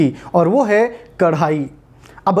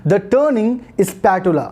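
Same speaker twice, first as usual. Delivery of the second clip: very slow, each word spaced out; teacher modelling a request slowly; slow model phrase; much slower than usual. Shown as a demonstration. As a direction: say it slowly for the learner to copy. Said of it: "तो बोलिए".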